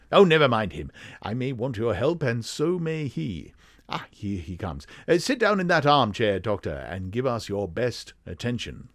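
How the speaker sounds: lightly high-pitched English detective; very English gentleman, swooping pitch; Sherlock Holmes. Acted. Detective seating his friend for a client, high English voice. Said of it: "his high-pitched, very English voice".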